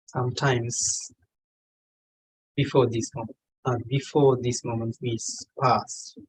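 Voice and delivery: measured meditation guide with long pauses; unhurried meditation leading in short, spaced phrases; guided meditation. Real, not acted. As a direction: guide them gently, phrase by phrase, pausing long between. Leads a meditation session.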